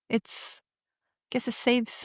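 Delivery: soft, slow inward-breath talk; talking while inhaling. Shown as a demonstration. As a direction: speak on the in-breath. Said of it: "I don't know why people do it".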